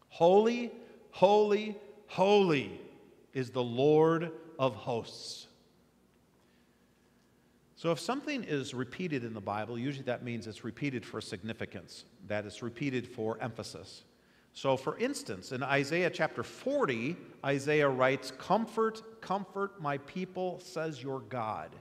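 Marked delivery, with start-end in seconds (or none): 0.1-5.5 proclaiming. Acted. Seraphim calling to one another, loud proclamation. Quotes seraphim praise again. 18.3-21.8 lifted first comfort, softening to the end; tender proclamation. Acted. Prophet comforting his people, tender. Quotes Isaiah forty.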